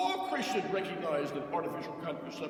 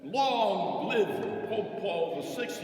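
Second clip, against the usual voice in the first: triumphant acclaim; 6 semitones higher, 4 dB louder, much slower than usual. Real, not acted.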